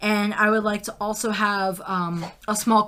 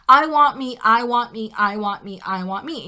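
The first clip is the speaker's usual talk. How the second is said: near temper tantrum; 5 dB louder than usual. Retold or imitated. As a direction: insist like a child close to a tantrum. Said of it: "shy of throwing a temper tantrum".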